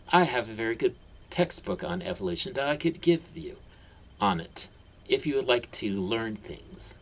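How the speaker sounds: sickly sweet. Acted. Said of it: "her voice was sickly sweet".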